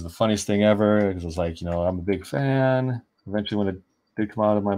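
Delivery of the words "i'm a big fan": slow, high, breathless gush of a starstruck fan; starstruck fangirl. Retold or imitated. Meeting Keenan Lafferty, a tongue-tied fan gushes slowly and high. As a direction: blurt it out high and slow, overwhelmed.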